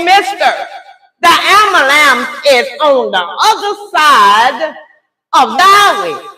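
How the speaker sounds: loud, emphatic retold correction; exasperated correction. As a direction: spell it out for the operator.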